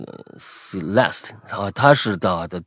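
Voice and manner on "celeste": Celeste drawn out very slowly, syllable by syllable; spelling it out. Shown as a demonstration. Host working out a listener's English name, slow sounding-out. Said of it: "就拼".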